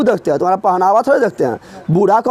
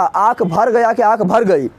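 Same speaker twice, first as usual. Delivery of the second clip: slow, drawn-out question to the class; धीमा सवाल; slower than usual. Shown as a demonstration. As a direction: stretch each word so students catch the choice. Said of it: "बता". (धीरे-धीरे खींचकर पूछा गया सवाल)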